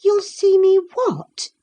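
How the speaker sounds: high, startled question; surprised. A narrator's reading. To the rude lad, a high startled question. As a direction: caught off guard by his rudeness. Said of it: "asked Catherine in surprise".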